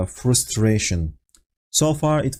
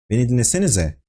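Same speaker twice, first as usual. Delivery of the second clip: a firm, understated angry Beni dinlesenize; much faster than usual. Shown as a demonstration. A teacher to students not listening, mildly angry. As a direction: scold the class with mild restrained anger. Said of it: "angry tone in my voice".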